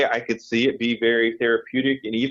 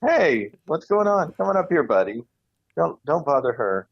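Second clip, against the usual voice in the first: cooing at a pet; 6 semitones higher than usual. Retold or imitated. Calling a cat over, shooing.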